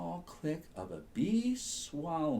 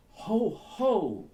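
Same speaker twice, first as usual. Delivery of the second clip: hooting ho ho, higher and louder; owl voice; 9 semitones higher, 7 dB louder than usual. Acted. Fat owl hooting at the yawning rabbit. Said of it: "said a fat owl".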